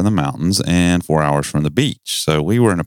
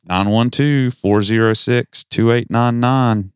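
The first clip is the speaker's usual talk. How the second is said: measured, higher-pitched digits; reading out a number; 5 semitones higher, slower than usual. Real, not acted. Host giving listeners the call-in number, measured and slow. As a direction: read the phone number out slowly.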